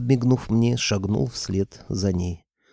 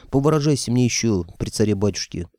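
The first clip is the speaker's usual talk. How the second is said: angry scolding; faster than usual. Acted. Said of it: "рявкнула тётушка".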